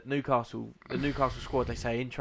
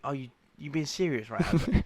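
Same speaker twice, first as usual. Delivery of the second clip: mock disbelief; 2 semitones higher, 6 dB louder than usual. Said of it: "I think".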